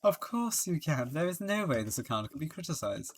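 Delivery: lightly put-on English accent. Prosecutor insisting the account stands, in an English accent. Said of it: "why did I do an English accent".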